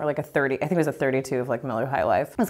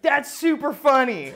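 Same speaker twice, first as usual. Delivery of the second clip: high-pitched mock amazement; imitating delighted disbelief; amused prank victim; 8 semitones higher than usual. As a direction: squeal it like a tickled guy. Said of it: "he's like".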